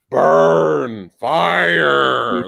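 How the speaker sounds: drawn-out monster words; classic movie monster. Acted. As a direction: lightly imitate a lumbering movie monster. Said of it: "That's what I'm used to".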